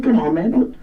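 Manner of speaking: normal talking voice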